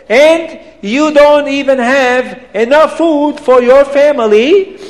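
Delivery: put-on high, loud accented tirade; outraged, incredulous rant with swooping questions; angry Abdallah. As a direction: scold him in mounting indignation. Abdallah scolds the poor man angrily.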